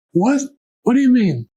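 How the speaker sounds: high, startled what; surprised. Retold or imitated. Personnel manager startled by the news, high and surprised. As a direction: jump up in pitch, caught off guard.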